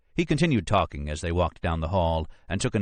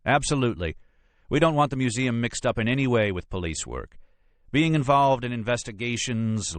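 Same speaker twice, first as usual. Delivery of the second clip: officious lawyer, pitched higher, dropping at sentence ends; Brisbane, adamant; 5 semitones higher than usual. Acted. Lawyer keeps museum out of police work, higher and adamant. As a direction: refuse firmly from a raised pitch. Narrator voices Brisbane's firm refusal.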